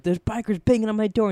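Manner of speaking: high, loud panicked report; retold panic. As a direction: blurt it out on the phone. Panicked phone call to friend.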